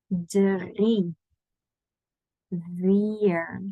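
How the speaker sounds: numbers drawn out one at a time; slow counting. Shown as a demonstration. Teacher inviting students to repeat the numbers, slowly. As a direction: leave a long pause after each number. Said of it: "I'm gonna say them slowly".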